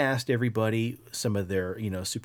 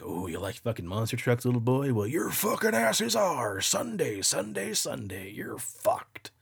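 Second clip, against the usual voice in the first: put-on sinister demon taunting a little boy, ending in a whisper; menacing entity voice. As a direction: taunt like a creepy monster, drop to a whisper at the end. Voicing sleep paralysis entity.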